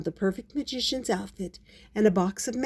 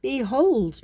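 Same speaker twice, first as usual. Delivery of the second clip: showy, higher magician's flourish; louder, lifted showman's call; stage magician; 6 semitones higher, 4 dB louder than usual. Acted. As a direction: announce it grandly to open a trick. Magician begins trick for Paddington.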